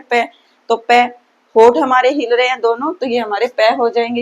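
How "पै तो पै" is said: पै said clearly with both lips; पै demo. Shown as a demonstration. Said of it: "तो पै बोलते हैं".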